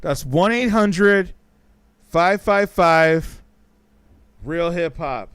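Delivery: slow, loud, every digit spaced out; slow spelled-out number. Shown as a demonstration. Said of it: "repeating the phone number slowly".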